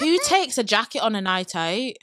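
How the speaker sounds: light Mancunian twang; Manchester accent. Shown as a demonstration. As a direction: say it like a Manchester local. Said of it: "Right, let me go".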